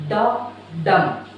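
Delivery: "da dum" as two separate pulse beats; heartbeat rhythm. Shown as a demonstration. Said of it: "our heartbeat and pulse sound is".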